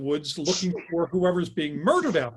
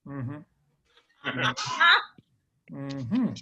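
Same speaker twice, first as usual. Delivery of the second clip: unimpressed mm-hmm; 3 semitones lower than usual. Retold or imitated. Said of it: "he's not reacting the right way".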